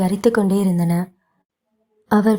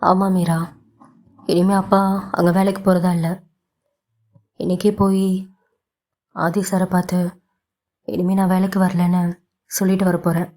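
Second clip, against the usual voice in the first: with a gentle smile. Acted. Father telling his daughter he quits, gentle smile. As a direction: break good news with a small smile. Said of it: "சிவம் மெல்லிய சிரிப்புடன்".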